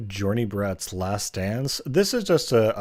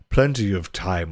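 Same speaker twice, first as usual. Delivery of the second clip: lightly voiced sly nobleman, Plenty of time; sleazy master; 4 dB louder than usual. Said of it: "inappropriate voice I can muster".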